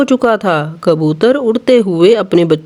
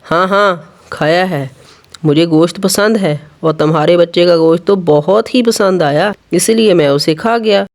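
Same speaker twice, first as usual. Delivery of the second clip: a touch of gruff irritation; irritably; 3 semitones lower than usual. Acted. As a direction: brush the question off, annoyed and low. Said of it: "बगला उखड़ता हुआ".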